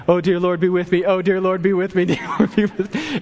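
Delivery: pleading with the Lord in hammed-up fright; panicked retold prayer. Fleeing the pawn shop in his truck, mock-frantic praying. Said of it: "And I was just praying".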